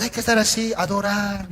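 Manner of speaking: mock-solemn adoration like a wake; solemn funeral hush. Shown as a demonstration. Preacher mimicking a funeral-like worship, hushed. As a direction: drop to a hushed, mournful murmur. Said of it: "como un velorio".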